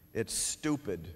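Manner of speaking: put-on low, sullen kid complaint; sulky kid. Shown as a demonstration. Teacher playing a student who calls math stupid, sullen. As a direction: mutter it like a fed-up kid. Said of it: "now I'm gonna be the kid".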